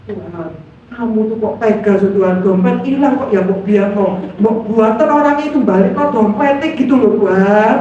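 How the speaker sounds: fast, whining mock complaint to God; whiny complaint to God. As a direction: rattle off a petulant grumble at God. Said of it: "dulu tuh saya gitu".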